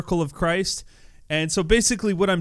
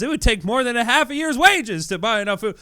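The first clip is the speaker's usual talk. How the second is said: defensive; 7 semitones higher than usual. Retold or imitated. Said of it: "He, he gets defensive and says".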